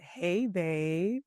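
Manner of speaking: gentle, flowing "Hey, babe"; soft tender greeting. Shown as a demonstration. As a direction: soften it for your partner.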